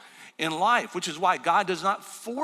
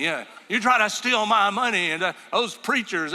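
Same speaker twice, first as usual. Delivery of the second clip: loud, raised retold yelling; still yelling; 4 semitones higher, 5 dB louder than usual. Customer still yelling at the preacher over money, mock angry yell. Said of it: "he's still yelling at me".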